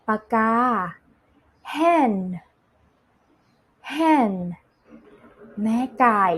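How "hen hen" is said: "hen" as a careful, separate word; slow, clear model. Shown as a demonstration. Teacher models "hen" for children to repeat, slow and clear. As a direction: pronounce "hen" distinctly with a falling tune. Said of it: "อ่านตามพี่ช้าๆช้าๆชัดๆ".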